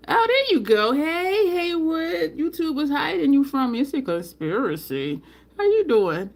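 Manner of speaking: high, delighted welcome on spotting a friend; excited greeting. Real, not acted. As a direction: greet them high and thrilled.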